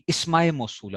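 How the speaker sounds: imitating students saying "اسماء" as "ismaye"; students' mispronunciation. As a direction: open "اسماء" with a short i, ismaye. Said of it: "تو وہ کہتے ہیں جی اسماء موصولہ".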